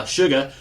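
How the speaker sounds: "Suga" in an exaggerated Southern accent, no R; Rogue. Reviewer mocking cartoon Southern speech, "Suga" without its R. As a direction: drop the final R on "Suga". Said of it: "people who talk like Rogue does".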